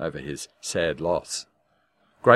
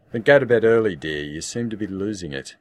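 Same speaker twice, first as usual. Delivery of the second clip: snappy dismissal; 3 semitones higher, 6 dB louder than usual. Acted. Husband dismisses wife sharply.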